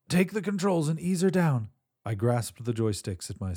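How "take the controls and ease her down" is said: firm order repeated; commanding. Acted. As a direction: press the order home. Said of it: "she coughed violently".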